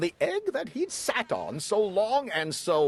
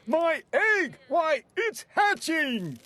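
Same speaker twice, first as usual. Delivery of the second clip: excited shout; 9 semitones higher than usual. A narrator's reading. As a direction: shout it out amazed. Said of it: "shouted Horton".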